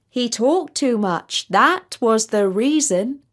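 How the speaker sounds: slow, solemn recitation to a king; lightly voiced solemn sage verse; recited verse. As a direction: intone the moral like an old saying.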